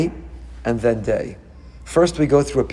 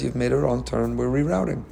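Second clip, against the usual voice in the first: softer, unruffled navigation voice; calm navigator; 2 semitones lower, 6 dB quieter than usual. Acted. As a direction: imitate a patient GPS, without raising your voice. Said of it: "It very calmly says".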